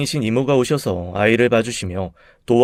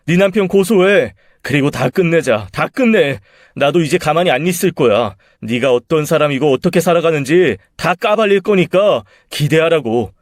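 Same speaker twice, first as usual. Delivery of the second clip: defiant rage; 3 semitones higher, 3 dB louder than usual. Acted. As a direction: dare her, then threaten. Husband defiant final threat. (이혼을 선언하며 위협하는 남편)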